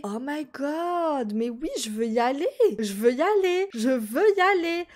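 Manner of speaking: bursting with excitement; thrilled. Real, not acted. Player thrilled to visit the new baby, excited squeal.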